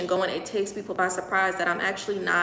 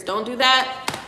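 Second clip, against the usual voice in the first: higher plea against crying; fighting back tears; 4 semitones higher, 3 dB louder, slower than usual. Real, not acted. Live host fanning away tears, fighting them back. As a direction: hold the tears back as you plead. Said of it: "I'm trying to, like, fan the tears".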